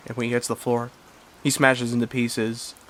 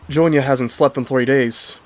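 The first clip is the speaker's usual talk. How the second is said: put-on British accent; 3 semitones higher, 5 dB louder than usual. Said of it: "he said in his British accent".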